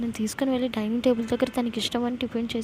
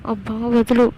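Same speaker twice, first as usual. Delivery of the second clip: irritated push-off, a bit louder; annoyed; 6 dB louder, slower than usual. Acted. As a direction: shake him off, fed up. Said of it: "విసుగ్గా అని". (విసుగ్గా, చిరాకుగా)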